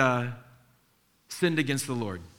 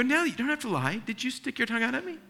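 stern dad; 9 semitones higher, much faster than usual. Retold or imitated. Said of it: "I go".

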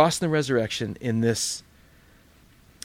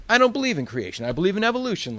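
higher, a lightly voiced doubter; mock skeptic; 6 semitones higher, faster than usual. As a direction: play the dismissive unbeliever, lightly. Preacher voicing a skeptic.

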